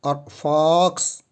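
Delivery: फॉक्स spoken slowly with a clear f and short o; teacher models फॉक्स for tongs; slow word demo. Shown as a demonstration. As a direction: spell out फॉक्स sound by sound. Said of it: "मतलब फॉक्स जो आपके".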